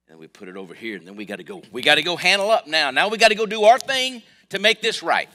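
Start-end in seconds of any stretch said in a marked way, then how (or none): 1.7-5.3 much higher, much louder, driving preacher cry; preaching shout. Acted. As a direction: belt it out like a fired-up preacher. Preaching climax, hurried self-reliance.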